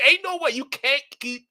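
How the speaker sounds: real laughing no way; laughing disbelief. Real, not acted.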